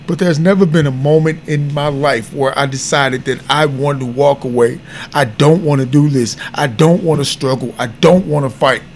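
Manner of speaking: holding back tears while he confesses; getting emotional. Real, not acted. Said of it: "I'm sorry if I'm getting emotional".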